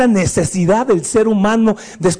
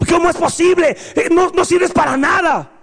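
mock angry insults; 6 semitones higher than usual. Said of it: "enojarte y decirle todas las cosas malas".

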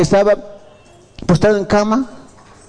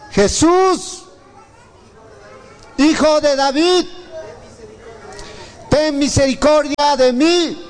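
mildly raised, drawn-out plea; half-hearted cry; 2 semitones higher, slower than usual. Pretend. Blind Bartimeo calls to passing Jesús, half-hearted cry. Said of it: "¿cómo gritaba?".

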